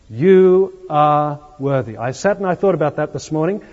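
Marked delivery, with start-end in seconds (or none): 0.1-2.0 "You are worthy" said slowly, weight landing on "worthy"; stress on worthy. Shown as a demonstration. Preacher showing the usual emphasis in a phrase of worship, stress on "worthy". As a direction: draw the phrase out firmly towards "worthy". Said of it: "often put the emphasis on worthy".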